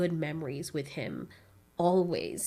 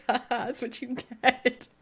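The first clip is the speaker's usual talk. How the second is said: gloating; 4 semitones higher than usual. Retold or imitated. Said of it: "I was just like".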